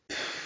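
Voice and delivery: exasperated sigh. Retold or imitated. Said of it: "et je te fais".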